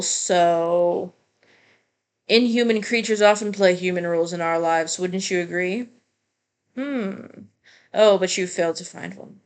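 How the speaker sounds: lightly voiced game characters. Lightly voiced characters debating a hybrid of man and bull.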